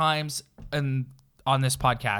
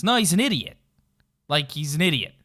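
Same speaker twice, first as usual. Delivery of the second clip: raised, emphatic insistence; 3 semitones higher, 4 dB louder, faster than usual. Real, not acted. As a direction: call him an idiot, pitched up and louder. Heated rant about the coach.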